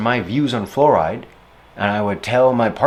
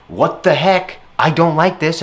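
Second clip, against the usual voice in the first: higher, louder outburst; coming down hard; 5 semitones higher, 4 dB louder than usual. Retold or imitated. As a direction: snap it out after bottling it up. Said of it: "And I come down really hard".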